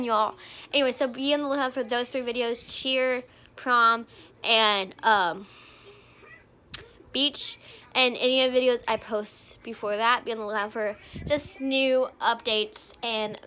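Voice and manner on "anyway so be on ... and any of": rushed and breathless, talking fast; racing through it, short of air; out of breath. Real, not acted. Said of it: "running out of breath 'cause I'm speaking really fast".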